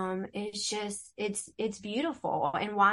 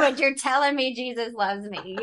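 put-on puzzled kids; 3 semitones higher, 6 dB louder than usual. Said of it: "kids asking why mom cries".

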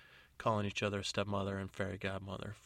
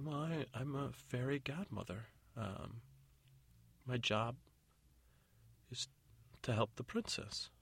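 lightly voiced hesitant godmother, pitched up; flustered fairy godmother; 4 semitones higher, 4 dB quieter than usual. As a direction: falter through a polite explanation. Fairy godmother pressed to explain herself.

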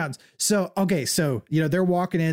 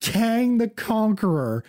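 retold excitement; 5 semitones higher, slower than usual. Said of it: "and I'm like".

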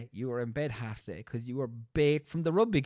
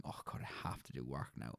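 soft, low mock groan of dread; half-whispered mock dread at homework; Sunday night dread; 10 semitones lower, 14 dB quieter than usual. Student facing Sunday night homework, soft mock dread. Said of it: "Sunday night fear of going".

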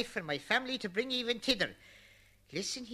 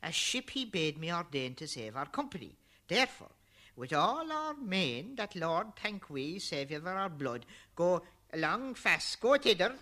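urgent Noah; 9 semitones higher than usual. Acted. Noah urging his wife to flee.

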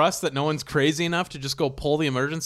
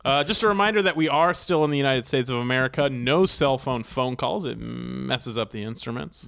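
airline captain voice. Acted. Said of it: "the pilot announcing".

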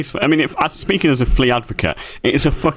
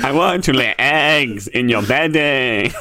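mock Transylvanian flea; slower than usual. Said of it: "they keep their roots in their accent".

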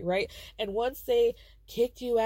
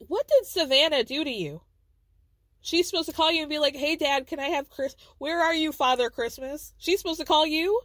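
incredulous, raised-pitch challenge; indignant scolding; 5 semitones higher, 3 dB louder than usual. Real, not acted. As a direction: demand an answer in disbelief. Indignantly scolding the absent father.

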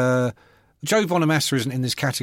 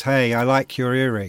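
deep rock-singer voice; 2 semitones lower than usual. Retold or imitated. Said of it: "Deep rock-singer voice".

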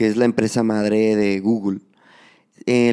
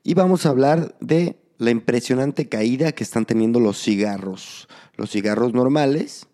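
podcast intro. Acted. Podcast host opens the show.

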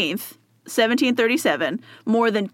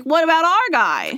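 higher, protesting imitation of fierce fans; indignant Irish fan; 6 semitones higher than usual. Imagined Irish people demanding their saint, mock indignant. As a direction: voice a mock-outraged crowd backing their own. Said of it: "so that they'd be like".

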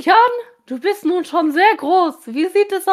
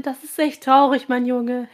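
provocative; 5 semitones lower than usual. Acted. Aunt taunting Julian about having no girlfriend, mildly mocking. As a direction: needle him with fake sympathy. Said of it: "sagte seine Tante provokant".

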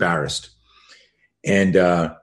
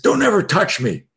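high-pitched mock yell, not full volume; retold scream; 11 semitones higher, 3 dB louder than usual. Student yelling at the bully he grabbed, mock scream. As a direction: imitate a teen yelling a warning. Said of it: "and I screamed".

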